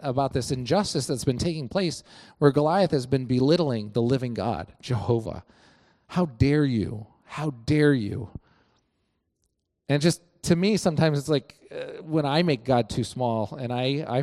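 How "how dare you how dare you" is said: slow, measured indignation; slow righteous rebuke; indignant. Retold or imitated. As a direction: spell out each word in outrage. David indignant at Goliath.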